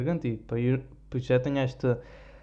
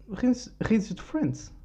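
mock laugh track; 9 semitones higher, much slower than usual. Imitating a sitcom laugh track.

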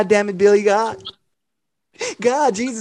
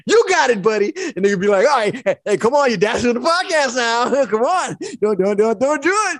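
cheery godparent; 4 semitones higher than usual. Retold or imitated. Godparents take over.

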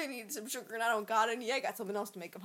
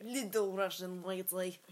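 put-on Russian accent; 3 semitones lower, slower than usual. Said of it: "Do the Russian accent".

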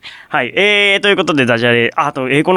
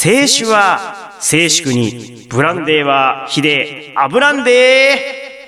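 pun recital; much slower than usual. Pretend. Host presents a drinker's pun, slow theatrical recital. Reads listener's pun as performance.

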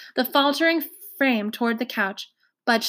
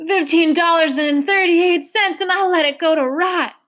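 1 almost sobbing; 6 semitones higher, 4 dB louder than usual. A narrator's reading. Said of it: "Trotter was almost sobbing now".

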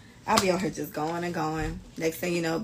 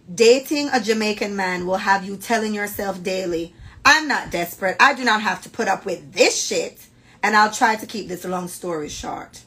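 story reading. Acted. Reads a friend's submitted story aloud.

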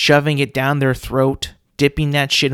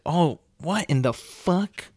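mock incredulous. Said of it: "It's like".

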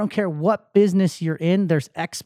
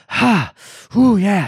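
fired-up whoo; 5 dB louder, slower than usual. Pretend. Fired up after workout.

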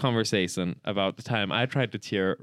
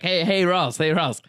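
higher, teasing call; playful attention-getting; 6 semitones higher than usual. Retold or imitated. Co-host calling Ross over to cheer him up, playful. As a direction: lightly pester a friend. Quotes self cheering friend up.

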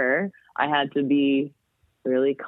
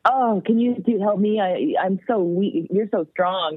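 put-on helpless plea, slightly raised pitch; pretending weakness; 4 semitones higher than usual. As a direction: play too weak and flatter a small child. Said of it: "pretending that I, I was too weak".

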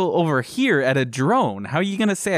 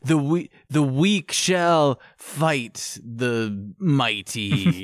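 slow, drawn-out mock-solemn line; mock solemn quote; much slower than usual. Gamer mocking the dying pilot's quote, slow and solemn. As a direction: intone it like a grave prophecy, half joking. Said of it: "They're like".

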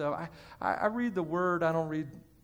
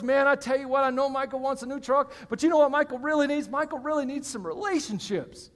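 God thinking aloud; 5 semitones higher than usual. Acted. God weighing what Michael needs, lightly acted, animated. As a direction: play God as a folksy, animated planner.

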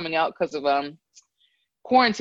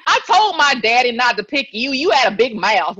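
mock Southern accent; 2 semitones higher, 4 dB louder than usual. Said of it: "the worst Southern accent".

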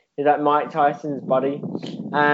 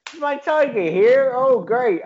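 high, loud put-on accent, delighted; hammed-up accent, far above the usual voice; Mike Tyson; 9 semitones higher, 3 dB louder than usual. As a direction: exclaim it in a silly high-pitched accent. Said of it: "I gave that accent to Mike Tyson".

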